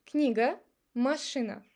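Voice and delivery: Книга, машина ending in a short uh; reduced unstressed A. Shown as a demonstration. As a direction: relax final A in Книга, машина to uh. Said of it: "I make it like A".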